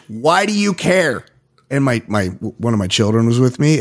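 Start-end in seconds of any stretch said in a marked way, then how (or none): 0.1-1.2 mild mock yell. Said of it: "Then I screamed".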